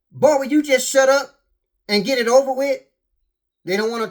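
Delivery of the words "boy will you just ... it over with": annoyed wife. Retold or imitated. Wife snapping at husband in bed.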